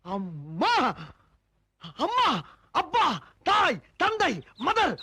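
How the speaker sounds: voice test. Pretend. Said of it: "எனக்கு குரல் வந்து விட்டது".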